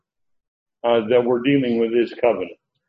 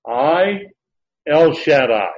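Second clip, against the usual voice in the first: strong divine declaration, stressing "I" and "El Shaddai"; emphatic; 3 semitones higher, 5 dB louder, slower than usual. Retold or imitated. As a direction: set "I" apart high, then hit "El Shaddai" louder. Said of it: "that's emphatic. That's really strong".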